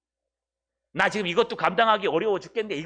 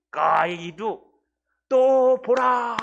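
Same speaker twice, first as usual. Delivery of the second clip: exclaimed behold; 3 semitones higher, 5 dB louder, much slower than usual. Acted. Exclaiming the Greek.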